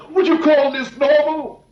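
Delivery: high, laughing in despair; bitter laugh. Acted.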